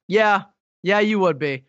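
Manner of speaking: mild, matter-of-fact confirmation; retold deadpan agreement. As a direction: lightly imitate a friend agreeing. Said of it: "it was exactly in that tone".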